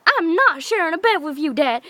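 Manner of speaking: high-pitched mock freak-out; imitating an outraged daughter. Comedian as daughter refuses to share a bed, freaking out. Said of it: "she's, like, freaking out".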